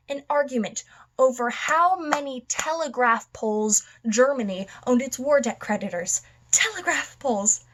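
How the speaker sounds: ranting stage villain, stretching the punched words; theatrical madman rant. Acted. Madman arguing the world is all a joke, theatrical rant. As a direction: build an emphatic, swinging rant. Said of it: "I will be performing One Bad Day from The Killing Joke".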